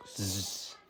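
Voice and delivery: soft buzzed "zzz"; buzzing spider. Pretend. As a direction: buzz quietly through the teeth. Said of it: "I think it goes like".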